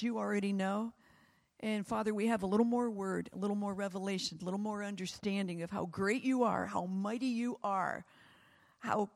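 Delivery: earnest prayer voice, speaking to God; closing prayer. Acted. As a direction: pray it sincerely to the Father.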